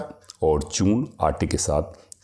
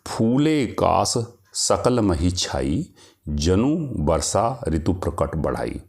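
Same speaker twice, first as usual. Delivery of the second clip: poem recitation. Acted. Reciting verse example.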